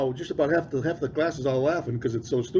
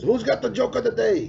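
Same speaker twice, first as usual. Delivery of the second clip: a higher, mock teacher call to the class; teacher's voice; 9 semitones higher than usual. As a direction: play the eccentric homeroom teacher asking. Teacher voiced in retold story.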